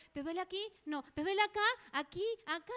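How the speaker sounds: quick mock-anxious checking; worried mother. Mother pointing at where child might hurt, anxious.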